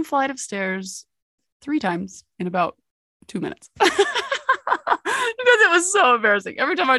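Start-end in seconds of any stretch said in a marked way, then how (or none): 3.8-5.3 high, burst of real laughter. Real, not acted. Laughing at own embarrassing fall. 5.4-7.0 higher, louder, quick, still laughing through the words; laughing while talking. Real, not acted. Laughing at own embarrassing fall.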